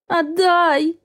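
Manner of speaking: high, whining little plea; mother whimpering to Raf for her son. A narrator's reading. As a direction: whimper it like a puppy. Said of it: "проскулила, как самая настоящая собачонка".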